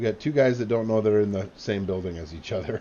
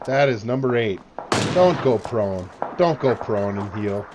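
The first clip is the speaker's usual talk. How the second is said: excited; 6 dB louder than usual. Real, not acted. Reacting loudly to kill.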